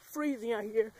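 breathing out visibly in the cold; shivery cold-night breath; cold air breath. Real, not acted. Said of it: "'cause you can see my breath".

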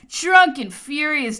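ordinary delivery, nothing marked

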